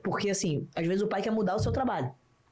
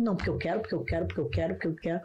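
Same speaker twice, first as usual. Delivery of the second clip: pai teimoso insistindo; 4 semitones lower, faster than usual. Retold or imitated. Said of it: "o pai bateu na tecla".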